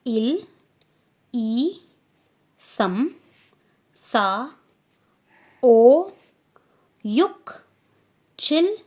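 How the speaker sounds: teacher demo count; careful Korean counting. Shown as a demonstration. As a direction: count aloud for the class to copy. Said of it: "pronunciation मैं कैसे कर रही हूँ".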